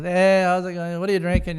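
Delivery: lightly boisterous reply; acted hearty greeting. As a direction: play the big guy's hello. Acts out Troy's hearty reply.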